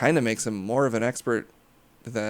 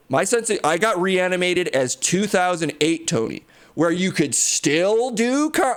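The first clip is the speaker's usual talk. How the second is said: Tony Stark; 3 semitones higher than usual. Acted. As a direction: stretch it out like a smug Tony. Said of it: "I did reanimate Tony Stark".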